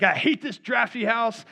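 imitating a man venting frustration; angry at life. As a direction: act out fed-up exasperation with the house. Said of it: "he's angry at life".

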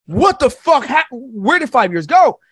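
a lightly played stunned father; mock shock.

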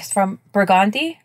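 Burgundy stressed on the middle syllable; local pronunciation. Shown as a demonstration. Host telling co-host where the fire started, Burgundy said the local way. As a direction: say bur-GUN-dy, with an open "ah" in the middle. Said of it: "They call it Burgundy".

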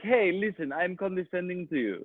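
lightly voiced French snob; condescending Frenchman. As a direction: imitate a patronizing French person. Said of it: "Even the nice ones are like".

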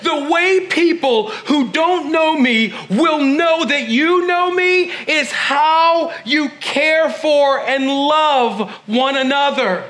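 slow, solemn quoting of Jesus; a touch of reverent solemnity. Acted. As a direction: give the words slow and weighty. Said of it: "Jesus said".

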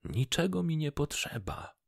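lightly smiling refusal; with a smile. Acted. Fisherman refuses the fish's reward, smiling. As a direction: turn down the reward kindly. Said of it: "odparł rybak z uśmiechem".

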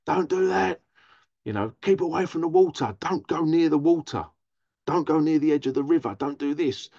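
urgent scolding, each command pushed out; imitated shouting mum. Mum warning a child away from the water, imitated shouting. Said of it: "my mum shouted at me".

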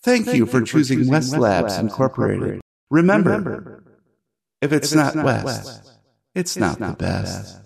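corporate robot ad jingle; upbeat automated sign-off; soft robotic voice. Acted. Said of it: "a soft robotic voice".

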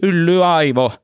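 high, loud furious insult; furious child yell. A narrator's reading. Little girl yelling at Pentti in a rage, high and loud. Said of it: "Liisa raivosi".

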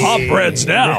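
announcer voice. Pretend. Game announcer voice.

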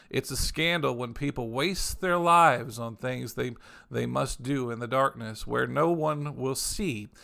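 slow, solemn reading of scripture. Acted. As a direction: read each phrase out slowly, with weight. Reads Message scripture aloud.

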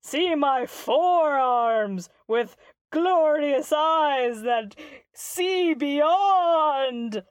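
slow, grand boastful proclamation; booming arrogant alien overlord. Acted. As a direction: boast like a self-important monster. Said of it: "the guy's like".

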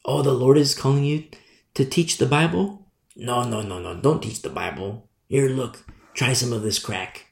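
Satan whispering temptations, lightly voiced; sly tempter Satan. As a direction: coax like the devil himself, quiet. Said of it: "what does he do? He offers enticing alternatives".

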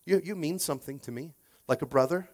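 mild, hedging declaration of love; acted casual, halting reassurance; lukewarm affection. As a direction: fumble lightly through a brotherly "love you". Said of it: "That means".

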